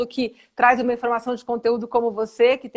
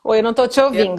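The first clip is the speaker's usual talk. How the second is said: louder over a bad connection; to someone hard of hearing; 6 dB louder, faster than usual. Real, not acted. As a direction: call out over a broken line. Can't hear on the call.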